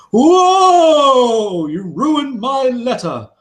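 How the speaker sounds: high, loud startled yelp of a pompous dwarf; startled dwarf mayor. Acted. Mayor startled by the adventurers, high yelp. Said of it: "He goes".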